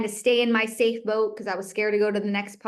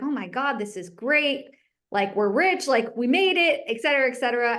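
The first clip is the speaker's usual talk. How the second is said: retold thrill; 3 semitones higher than usual. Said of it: "I was over the moon".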